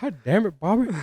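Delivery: hammed-up self-rebuke; mock scolding. Host scolding himself after a flubbed idiom, high and exasperated.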